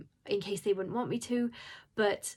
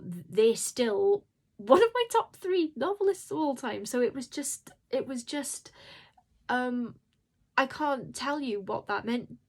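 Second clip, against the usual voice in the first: voice breaking; 4 semitones higher than usual. Real, not acted. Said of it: "emotional again".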